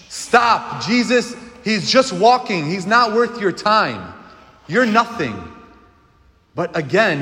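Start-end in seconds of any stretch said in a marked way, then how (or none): 0.1-5.3 higher-pitched scolding, mildly acted; dismissive crowd. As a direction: brush off the beggar, voice raised in pitch. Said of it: "what did the people do?".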